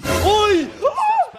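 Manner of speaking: high, loud startled cries; excited yelp. Real, not acted. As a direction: yelp as the shot goes up. Reacting live to the play. (pasigaw na pagkagulat)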